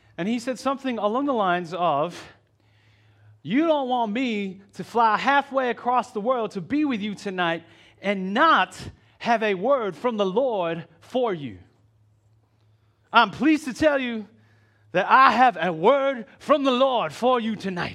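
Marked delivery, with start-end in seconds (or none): 3.5-18.0 bad put-on American accent in a preacher style. Retelling what a preacher said at a conference: poor imitation of an American preacher's accent. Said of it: "a very poor appropriation of whatever his, uh, accent".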